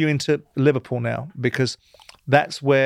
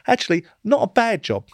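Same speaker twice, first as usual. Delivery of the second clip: higher, grudging second thought; higher reluctant admission; grudging reconsideration; 8 semitones higher than usual. Retold or imitated. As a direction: concede it, surprised at yourself. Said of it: "Then I looked at it and went".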